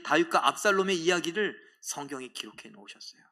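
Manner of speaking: ordinary talk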